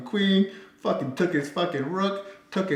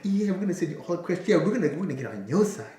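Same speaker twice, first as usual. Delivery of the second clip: mocking fast sweet-talk; 2 semitones higher, faster than usual. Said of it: "the B B C's calling them".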